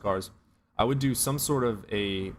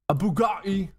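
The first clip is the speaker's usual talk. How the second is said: high, loud burst of excitement; excited shout; 11 semitones higher, 5 dB louder than usual. Real, not acted. Streamer shouting about a dream car, excited burst.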